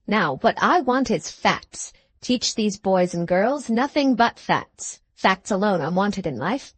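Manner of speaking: a hint of a dry, dictatorial teacher hammering his point; stern schoolmaster. Schoolmaster Gradgrind lectures the class.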